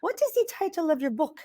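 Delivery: a put-on French accent, slightly butchered; French-accented question, lightly imitated; heavy French accent. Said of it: "in her very heavy French accent".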